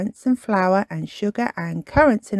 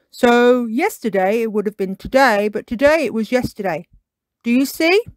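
Tiger explaining; 4 semitones higher, 4 dB louder than usual. Acted.

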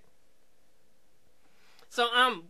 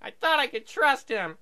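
mock shock; 5 semitones higher, 4 dB louder than usual. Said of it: "She is shocked".

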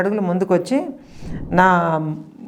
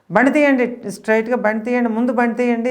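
urgent shout; 5 semitones higher than usual. Retold or imitated. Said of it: "అని గట్టిగా అరిస్తే".

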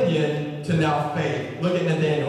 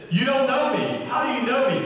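higher-pitched puzzled protest; confused; 6 semitones higher than usual. Retold or imitated. Nathanael asking how Jesus knows him, confused. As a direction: push back, baffled, voice lifted. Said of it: "And Nathanael's confused".

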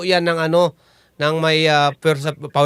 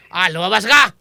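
shouted exorcism. Acted. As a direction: shout the demon out.

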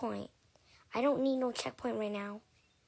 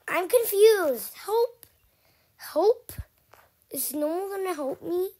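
high, loud cries for help; high pleading call; 6 semitones higher, 10 dB louder than usual. Real, not acted. Kid stuck on a stage, high loud pleading call. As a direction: wail for help.

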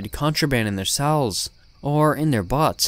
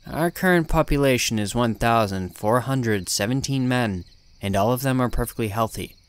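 flat, lifeless monotone nurse. Acted. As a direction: drone it out like an emotionless nurse. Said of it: "She answered in a very monotone voice".

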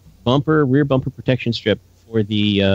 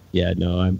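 breathless and winded; talking while catching breath; 4 semitones lower, 4 dB quieter than usual. Real, not acted. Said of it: "I'm out of breath".

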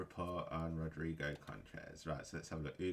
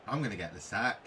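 frustrated; 3 semitones higher, 7 dB louder, faster than usual. Real, not acted. Manager game going badly.

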